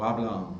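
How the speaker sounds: "habla um" ending in a nasal vowel; the wrong Brazilian "habla um"; nasalized final n. Shown as a demonstration. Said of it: "não". ("habla um" nasalizado, pronúncia errada)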